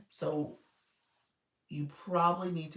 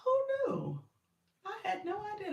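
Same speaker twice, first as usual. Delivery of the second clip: pitched-up filtered voice, much higher; Stormtrooper voice filter. Shown as a demonstration. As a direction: talk through the app's Stormtrooper filter. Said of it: "this is the Stormtroopers".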